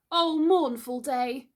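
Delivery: high, slow wail of grief; mournful lament. A narrator's reading. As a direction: lament the dreadful day. A boy laments Wendy's death.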